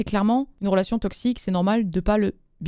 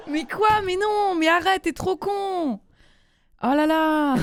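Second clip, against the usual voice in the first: high, squealing protest through laughter; helpless laughter; 7 semitones higher, slower than usual. Real, not acted. Host telling listeners they're too silly, laughing high. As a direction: protest while cracking up.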